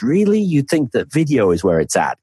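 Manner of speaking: high, rising disbelief on the first word; mock incredulity. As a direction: play the doubter who can't believe it. Voicing sceptics of audio's power.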